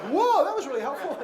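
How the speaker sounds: sarcastic. Retold or imitated. Counselor mocking the sister's unhelpful reply, sarcastic and laughing.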